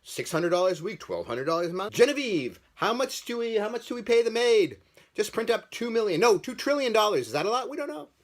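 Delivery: high-pitched, hammed-up politician voice; mock clueless politicians up high, calling out to the help. Politicians haggling over what to pay the people, high-pitched clueless mockery. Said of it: "they're like".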